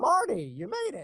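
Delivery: very high-pitched, younger-sounding voice. Showing the same line as the younger version: young Doc Brown voice. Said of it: "if it was young Doc".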